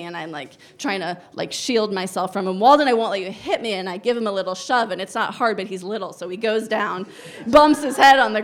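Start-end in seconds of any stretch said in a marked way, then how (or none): 2.6-3.7 raised firmer voice, louder each time; louder, strained warning. Retold or imitated. Mom at toddler hitting her, straining firm louder. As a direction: push the gentle script as patience runs out. Repeated louder, shielding from blows.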